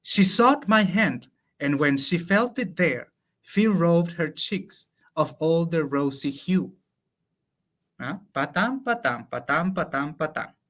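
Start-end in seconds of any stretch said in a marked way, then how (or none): 0.0-6.7 slow, measured recital of the English lines; slow verse reading. Acted. To a colleague, reciting translated Lope verse slowly. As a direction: savour each line of the sonnet, slowly.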